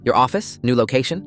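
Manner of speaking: stunned, rising questions; shocked disbelief. Acted. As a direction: repeat it in dawning horror. Realising who he really is.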